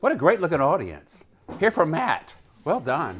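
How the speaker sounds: loud, animated, swooping surprised exclamation. Speaker opening an event for Matt, greeting the audience, surprised. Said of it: "You sound surprised".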